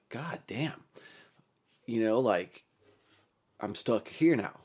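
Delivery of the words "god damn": soft, breathy whispered curse under the breath; a whispered god damn, half to himself. Retold or imitated. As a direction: hush it like a private groan of despair. Stuck in ICU, muttered despair.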